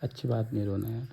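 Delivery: low, soft reassurance; gentle consoling. Real, not acted. Husband soothes crying wife, soft and low. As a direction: hush her tenderly.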